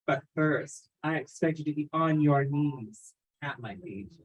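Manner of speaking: poised, controlled orders to a client; theatrical dominatrix, deliberate and in command. Acted. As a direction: give orders as the mistress in charge. Plays dominatrix greeting her client.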